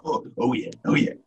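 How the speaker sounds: high, eager agreement; gleeful yes; excited agreement. Real, not acted. Echoing enthusiastic agreement.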